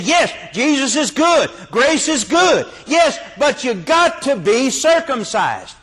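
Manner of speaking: high, mocking voice of the Galatians; sing-song imitation of legalists. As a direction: parody their half-hearted grace. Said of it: "They said".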